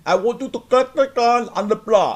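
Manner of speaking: mock tech support agent. Mocking the internal tech support guy, high put-on voice. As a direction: parody a scripted helpdesk worker. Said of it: "our internal tech support is all like".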